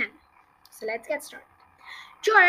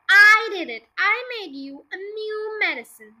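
loud, higher protest hit hard at the start; insistent raised voice; shouting back; 4 semitones higher, 6 dB louder than usual. A narrator's reading. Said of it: "George shouted back to her".

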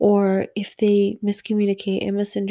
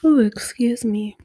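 real yawn running into the words; 2 semitones higher than usual. Real, not acted. Excusing herself to viewers after a yawn, yawning. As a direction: apologize as a yawn tails off. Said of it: "I keep yawning".

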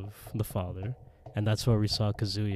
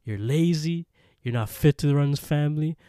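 raised, loud, stern rebuke; acted-out berating, louder and higher; mock scolding; 6 semitones higher, 6 dB louder than usual. Father's spirit disowning his eldest son, mock scolding.

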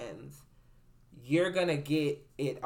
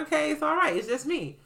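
soothing dog; 12 semitones higher than usual. Retold or imitated. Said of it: "I was like".

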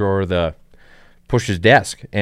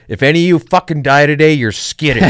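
higher and louder, a retold furious threat; mock angry boss; 5 semitones higher, 4 dB louder than usual. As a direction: channel the red-faced consultant, half-hammed. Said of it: "And he says".

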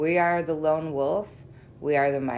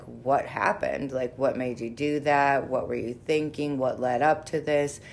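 calm therapeutic tone. Shown as a demonstration. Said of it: "so much of your work is in your tone".

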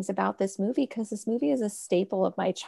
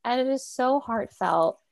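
teary-eyed; 3 semitones higher than usual. Real, not acted. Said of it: "a little teary-eyed".

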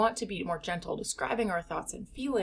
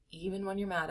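softer, dropped-down repeat; 6 dB quieter than usual. Shown as a demonstration. Coach repeating it softly to couples. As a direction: say it again gently, pulling back.

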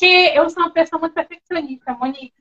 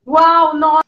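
mock excited entrance; much slower than usual. Interviewer showing how she opens her lives, excited. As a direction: act out a thrilled arrival. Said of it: "super empolgada".

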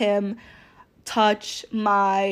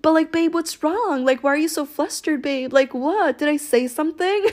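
higher, innocent fake-clueless tone; playing dumb; 5 semitones higher than usual. Teasing her frustrated boyfriend, playing dumb in a higher voice. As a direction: bat your lashes and feign innocence. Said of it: "act so stupid and be like".

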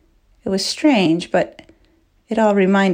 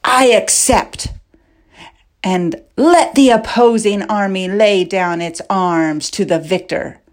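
loud cry. Acted. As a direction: call it out to both armies. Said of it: "he cried out in a loud voice".

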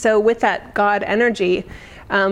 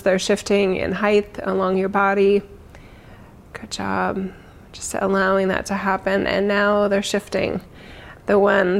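guided meditation. Acted. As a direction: ease them gently into calm. Leads a meditation.

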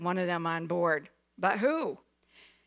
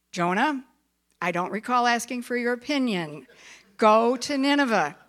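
stern command. Acted. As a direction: command it with no room to argue. God repeats his command.

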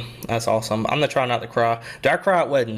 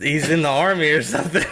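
laughing. Real, not acted. Laughs while telling memory.

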